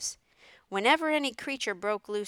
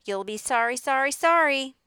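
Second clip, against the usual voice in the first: warning goose, rising higher and louder; goose calling out; 6 semitones higher, 6 dB louder than usual. A narrator's reading. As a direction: call a warning that builds in pitch. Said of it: "called the goose".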